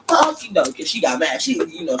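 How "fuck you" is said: mock angry curse. Marie cursing the dude.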